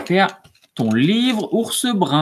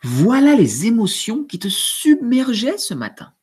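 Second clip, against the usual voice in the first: put-on story reading to children. A narrator's reading. Teacher finishing the book aloud for pupils, animated. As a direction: read to little ones with wonder.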